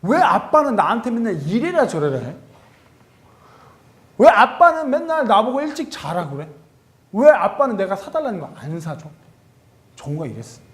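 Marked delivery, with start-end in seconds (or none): 0.0-9.1 put-on higher, louder childish complaint; son complaining. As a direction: nag dad like a sulky little boy. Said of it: "우리 정우가 작년에 늘 하던 얘기".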